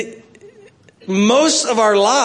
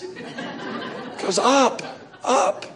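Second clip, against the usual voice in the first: soft, very slow, breathy hope with a laugh; drawn-out wishful murmur; dreamy laughing plea for the balance to rise; hushed wishful up; 5 semitones higher, 7 dB quieter, much slower than usual. Pretend. Wishing the account goes up.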